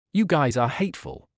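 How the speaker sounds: words pushed through clenched teeth; through gritted teeth. Acted. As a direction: grit your teeth and force it out. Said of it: "he said through gritted teeth".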